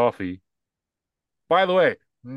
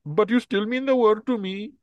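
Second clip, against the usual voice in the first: put-on high young woman voice; 10 semitones higher than usual. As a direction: read it as the grown daughter, sweetly. Acting daughter's line from the ad.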